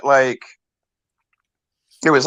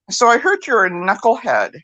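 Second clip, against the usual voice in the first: higher-pitched playful needling; cheeky teasing; 6 semitones higher than usual. Retold or imitated. Grinning friend teasing her in the dream, cheeky. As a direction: tease with a cheeky grin in the voice. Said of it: "You know when he's all cheeky".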